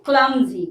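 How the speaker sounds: Clumsy said slowly as KLUM-zee, with the u as in cup; careful pronunciation. Shown as a demonstration. Teacher stressing pronunciation to students, careful. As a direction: repeat Clumsy clearly for the class. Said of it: "pronunciation इसलिए कह रही".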